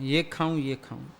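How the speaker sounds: soft, low, torn between two dishes; dithering mutter. Retold or imitated. Indecisive person muttering to himself over two dishes in the kitchen. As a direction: mumble the choice back and forth, fading.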